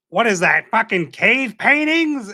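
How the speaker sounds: drawn-out, rising mock disbelief; retold bafflement. Friend retelling a cast mate's flag blunder, baffled.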